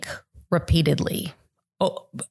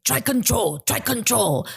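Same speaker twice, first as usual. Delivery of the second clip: put-on a light Vietnamese accent on the mother's words, a bit higher; a hint of Vietnamese-accented English, half-voiced; imitating Vietnamese accent; 6 semitones higher than usual. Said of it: "has a very thick Vietnamese accent".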